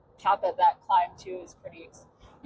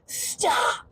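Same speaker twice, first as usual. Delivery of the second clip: re-enacted yell, pitched up and drawn out; imitating a high holler to halt someone; retold yell; 10 semitones higher than usual. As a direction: call out after a runner, held back in volume. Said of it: "And I just yell out".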